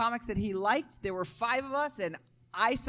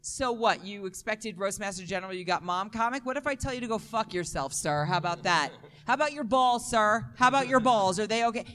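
mock crowd taunting. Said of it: "I was like".

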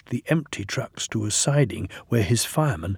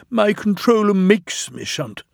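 higher-pitched sheepish complaint; 9 semitones higher, 3 dB louder than usual. A narrator's reading. Sir Handel complains to Gordon about shunting, sheepishly. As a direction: plead a grievance a little sheepishly. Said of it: "Sir Handel said sheepishly".

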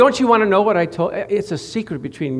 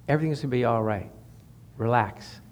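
much softer and lower, gentle and quick; soft whisper of God; 9 semitones lower, 11 dB quieter, faster than usual. Retold or imitated. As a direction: hush it like a comforting inner voice. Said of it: "the Lord just whispered to you".

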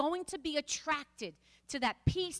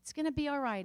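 put-on soothing a child; 4 semitones lower, faster than usual. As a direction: hush a crying kid gently. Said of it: "you hug them and you just tell them".

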